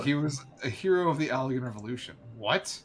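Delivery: questioning in-character read; a learned character querying a claim; lightly voiced scholar. Asking how the weapon gave that away, in a lightly acted scholar role. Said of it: "That wasn't a Scottish accent".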